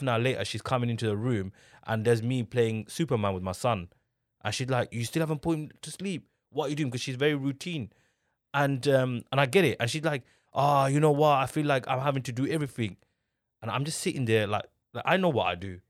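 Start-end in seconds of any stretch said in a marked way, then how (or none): 4.9-6.9 mildly exasperated, higher-pitched questioning; frustrated. Retold or imitated. Wife finding her son still awake, mildly frustrated. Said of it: "get frustrated". 10.5-13.0 imitated fed-up complaint, bursting out louder; retold exasperation with a loud start; frustrated. Wife complaining to husband about doing everything, mock frustrated. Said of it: "get frustrated".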